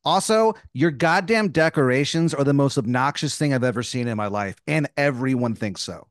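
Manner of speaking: acted indignant parting shot; exasperated tirade. Insulting the neighbor's decorations, exasperated tirade.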